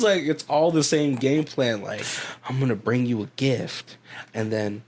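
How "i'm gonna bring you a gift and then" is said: soft, sly Southern coaxing; creepy Southern uncle whisper-soft; Southern accent. Retold or imitated. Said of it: "I'm doing this in a Southern accent".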